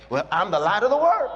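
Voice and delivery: bold declaration. Shown as a demonstration. Preacher showing the bold confession, firm declaration. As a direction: claim it boldly. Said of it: "The family is too small".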